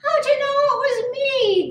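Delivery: high, whiny groan of dismay; groaning turkey. A narrator's reading. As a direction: groan it high-pitched, as if found out. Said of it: "groaned Turkey".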